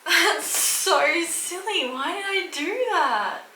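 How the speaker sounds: high, giggly self-mocking laugh through the words; laughing at herself. Real, not acted. Vlogger laughing at her own calendar mistake, giggly. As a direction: laugh it off, embarrassed at your own slip.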